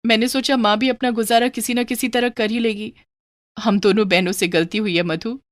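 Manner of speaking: a hint of an earnest, regretful daughter; lightly voiced daughter. Daughter admitting fault to her sister, mild remorse.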